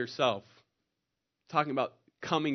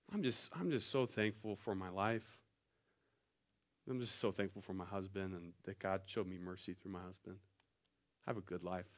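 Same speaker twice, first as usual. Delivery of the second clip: soft, low testimony; a hint of a humble old lady; lightly voiced old lady; 6 semitones lower, 10 dB quieter than usual. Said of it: "just a little old lady raised her hand".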